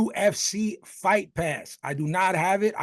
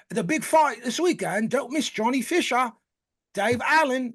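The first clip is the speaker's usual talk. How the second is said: high, hyped fight promo; promo announcer; 7 semitones higher than usual. Retold or imitated. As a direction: sell the big fight like a TV ad. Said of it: "they were like".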